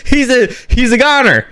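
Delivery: high, laughing delivery; amused laughter. Real, not acted. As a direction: say it through the tail of a giggle. Laughing at the deputy's fate.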